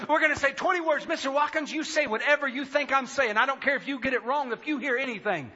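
high, eager imitation of a tester; excited tester. Audiologist explains twenty words to Mister Watkins, excited. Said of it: "I can hear the excitement in her voice".

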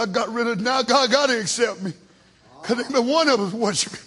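low, soft self-satisfied mutter; quiet scheming Cain. Retold or imitated. Cain telling himself God must accept him now. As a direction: say it to yourself, pleased.

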